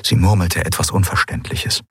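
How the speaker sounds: ordinary delivery, nothing marked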